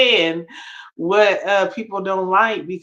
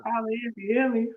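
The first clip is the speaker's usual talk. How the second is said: talking through hiccups; words broken by hiccups; 5 semitones higher, 7 dB quieter than usual. Real, not acted. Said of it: "I got the hiccups".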